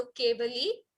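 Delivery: केवली with a short final i, rising; short final vowel. Shown as a demonstration. Teacher correcting vowel length for class, careful pronunciation. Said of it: "ली बड़ा नहीं है, छोटा है".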